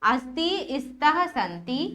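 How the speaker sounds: अस्ति, स्तः, संति as separate list items, last one rising; line-by-line recitation. Shown as a demonstration. Teacher showing how to read the verb table अस्ति, स्तः, संति, line-by-line recitation. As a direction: model the drill अस्ति, स्तः, संति form by form. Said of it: "कैसे पढ़ना है इसको?".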